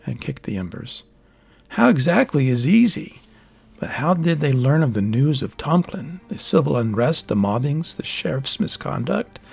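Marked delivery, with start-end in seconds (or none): 1.7-9.4 lightly voiced old hermit, a bit higher and lecturing; a hint of a know-it-all recluse holding forth; hermit's voice.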